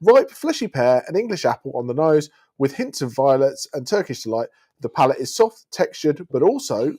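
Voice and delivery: reading a wine label aloud; measured, descriptive label read; sommelier tasting notes. Acted.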